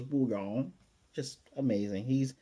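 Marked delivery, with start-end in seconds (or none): 0.0-0.7 lightly voiced cat call with a rising end; cat's cry. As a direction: coo the cat's name like the cat says it. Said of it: "the cat, who goes".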